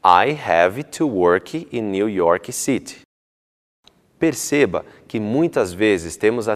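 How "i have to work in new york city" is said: slow, with an i sound added after each word; "worki", "Yorki" with an added vowel, "City" said "siti"; mock Brazilian accent, slow; Brazilian extra vowels. Shown as a demonstration. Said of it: "é muito comum ouvir algo assim".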